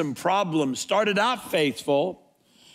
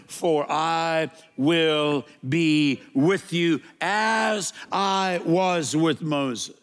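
slow solemn promise; much slower than usual. Acted. Quoting God's promise slowly.

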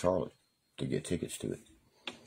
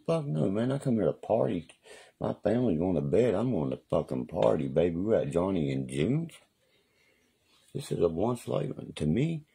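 rowdy party yell; 4 semitones higher than usual. Retold or imitated. Pushing past guards at bar.

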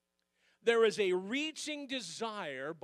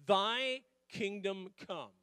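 scripture reading; 4 dB louder, slower than usual. Shown as a demonstration. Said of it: "here's my scripture".

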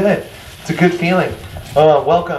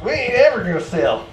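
Yosemite Sam; 8 semitones higher than usual. Retold or imitated. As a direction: play the stubborn old prospector. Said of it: "sounds just like Yosemite Sam".

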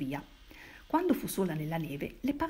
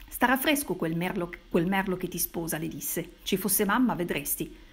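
louder taunting jab; 3 dB louder than usual. Acted. Severino taunting his sister at the table, raised voice. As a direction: needle her, voice raised. Brother needling Ginia angrily.

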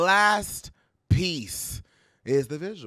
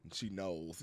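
laughing; 12 semitones lower, 14 dB quieter than usual. Shown as a demonstration. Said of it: "Did you hear what I did?".

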